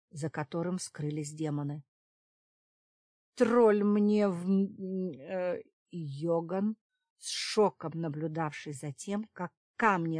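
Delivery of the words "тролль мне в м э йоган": slow, loud startled curse. A narrator's reading. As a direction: blurt it out in shock. Yogan startled by explosion.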